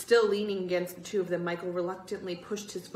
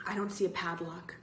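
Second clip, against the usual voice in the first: wary. Acted. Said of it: "Greg said warily".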